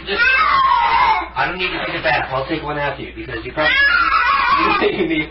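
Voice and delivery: frantic shout. Real, not acted. Owner yelling while the cat fights the bath, frantic shout. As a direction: shout over the struggling cat.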